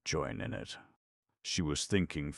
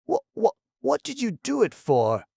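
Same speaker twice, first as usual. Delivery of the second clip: much higher, loud, stammering whine; almost a whimper; 10 dB louder than usual. A narrator's reading. Monty, crushed by Pat's confession, whimpering. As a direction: stutter it out like a hurt whimper. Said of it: "It was almost a whimper".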